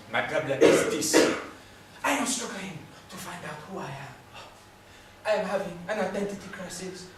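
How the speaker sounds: put-on French-accented confession; troubled Frenchman's accent. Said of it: "I think you're French".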